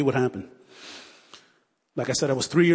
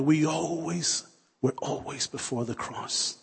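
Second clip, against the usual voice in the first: slow and hushed, echoing the grandmother; almost whispered reminder; soft counsel; 5 dB quieter, slower than usual. Retold or imitated. Preacher echoing grandmother's words to the congregation, hushed.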